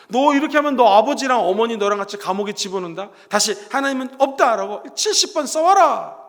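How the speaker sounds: loud, acted scolding threat; angry teacher. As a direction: order the pupil about sternly. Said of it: "선생님 화가 났어요". (화난 선생님의 큰 소리 꾸중 흉내)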